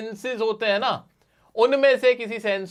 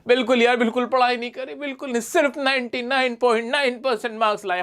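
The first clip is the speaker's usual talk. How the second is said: higher voice, lightly mocking a friend who brags while pretending not to; fake-modest topper friend; 5 semitones higher than usual. Teacher mimics students' friends bragging falsely about marks, mock modest. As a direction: play the humble-bragging classmate, a little raised. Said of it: "बोलेंगे".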